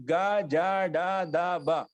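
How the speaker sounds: గ, జ, డ, ద, బ drawn out slowly, without any puff of breath; simple unaspirated consonants. Shown as a demonstration. Teacher showing the class the light letters గ, జ, డ, ద, బ, slow and unaspirated. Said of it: "ఇవి కూడా సింపుల్ గా పలుకుతున్నాం".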